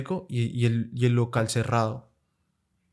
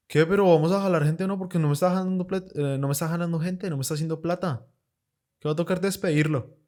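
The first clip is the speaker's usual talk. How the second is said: boss pressuring; 5 semitones higher than usual. Retold or imitated. Boss pushing her to hustle.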